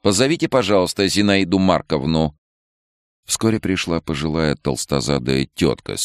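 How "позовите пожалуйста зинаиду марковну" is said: loud high call down the corridor; calling out nervously. A narrator's reading. Frightened head doctor calling a nurse from the corridor. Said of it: "трусливо выглянула в коридор".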